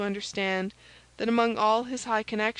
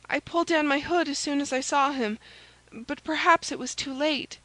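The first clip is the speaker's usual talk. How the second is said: higher maid's voice, uneasy; worried maid Kitty; 6 semitones higher than usual. A narrator's reading. Maid fearing she was recognised, worried. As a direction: confess the worry in a high voice.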